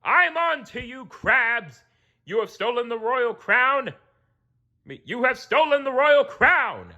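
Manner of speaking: high, loud furious king voice; a raging sea king; accusing king. Acted. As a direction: point the finger and thunder.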